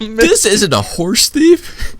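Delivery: high, loud and slow declaration; hammed-up detective's reveal; Darvish's proclamation. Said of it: "finally Darvish snaps out and says".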